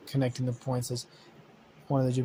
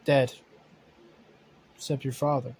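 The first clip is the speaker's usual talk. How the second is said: monotone robot. Acted. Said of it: "monotone voice".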